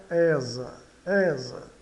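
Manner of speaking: "esa" with the S voiced as Z. Shown as a demonstration. Teacher explains S between vowels, "esa" with Z sound. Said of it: "o S tem som de Z".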